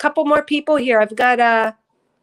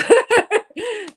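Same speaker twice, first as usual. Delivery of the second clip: a bright, breathy burst of laughter; emotional laugh; 10 semitones higher, 6 dB louder than usual. Real, not acted. Reader laughing, touched by a viewer's words. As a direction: laugh out, moved by the comment. Reading a moving comment aloud.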